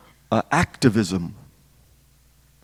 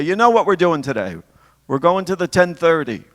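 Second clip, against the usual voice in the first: raised-pitch imitation of mother answering dad; lightly voiced mother, pitched up; mother's reply; 5 semitones higher than usual. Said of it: "And my mother would say".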